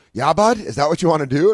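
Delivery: high, loud caricature of a challenge; hammed-up tough talk; mock Canadian heckler. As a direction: square up like a hoser looking for a fight. Mimicking the heckler squaring up.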